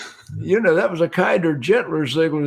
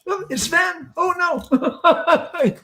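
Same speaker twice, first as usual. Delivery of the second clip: laughing; 11 semitones higher, much slower than usual. Pretend. Joking swami punchline, laughing.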